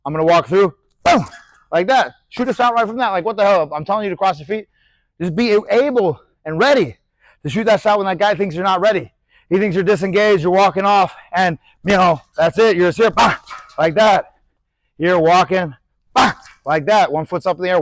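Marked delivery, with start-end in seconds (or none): 1.0-1.3 punch sound. Shown as a demonstration. Imitating a punch landing. 13.1-13.4 short, sharp "bah" punch noise; punch sound. Shown as a demonstration. Boxing coach showing a quick shot, punch sound. 16.1-16.3 short, sharp "bah" punch noise; punch sound. Shown as a demonstration. Boxing coach showing a quick shot, punch sound.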